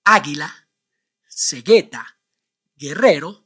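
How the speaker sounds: águila, cegueta, guerrero with silent u; hard g into e or i, no u; Spanish words. Shown as a demonstration. Teacher revealing the practice answers. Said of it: "If you said".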